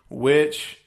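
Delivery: wheezing through the words; breathless wheezy delivery. Real, not acted. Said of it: "I'm over here wheezing and shit".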